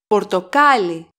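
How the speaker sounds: Πορτοκάλι stressed on the second-last syllable, κά. Shown as a demonstration. Greek teacher demonstrates where the accent goes, Πορτοκάλι stressed on κά. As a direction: lean on κά in Πορτοκάλι. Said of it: "Second syllable from the last".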